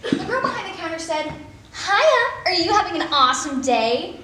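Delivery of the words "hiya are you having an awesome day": chirpy cashier. Retold or imitated. Mocking the counter girl's chirpy greeting. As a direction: mimic the perky counter girl.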